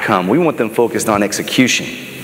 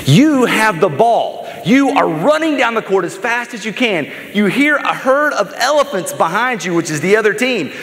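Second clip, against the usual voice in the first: higher-pitched, dramatic scene-painting; building suspense; 7 semitones higher than usual. Acted. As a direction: build the tension of the final seconds. Puts listeners in Jordan's shoes, countdown.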